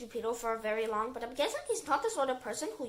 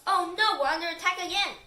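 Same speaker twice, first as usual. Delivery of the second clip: high, loud cry of alarm; 5 semitones higher, 5 dB louder than usual. A narrator's reading. Character in a story cries that they are under attack, alarmed. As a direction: call out in mock panic.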